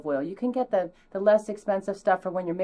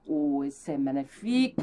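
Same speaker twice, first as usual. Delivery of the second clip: mock French, lower; 4 semitones lower than usual. Host murmuring c'est magnifique in a lower mock French accent. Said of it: "We will speak like this".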